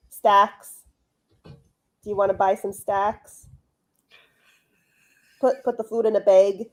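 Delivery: mock Midwest accent with stretched vowels. Host mocking the accent they call ugliest, Midwest accent. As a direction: lightly exaggerate a Midwestern accent, drawing out the words. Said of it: "there is no worse accent than the Midwest accent".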